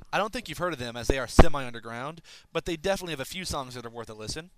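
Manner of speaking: rushing the last words, short of air; running out of breath. Real, not acted. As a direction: squeeze out the end on the last breath. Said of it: "I'm running out of breath".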